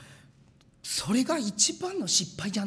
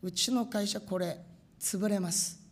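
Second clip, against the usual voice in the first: retold prayer; 2 semitones higher, 3 dB louder than usual. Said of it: "取り出して祈った".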